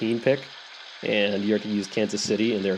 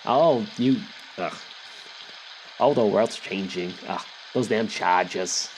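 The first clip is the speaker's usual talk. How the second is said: put-on grumpy old grandma. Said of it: "old grandmothers that smokes cigarettes".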